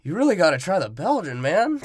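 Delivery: lightly voiced Vin Diesel; imitating Toretto. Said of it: "he says it just like that".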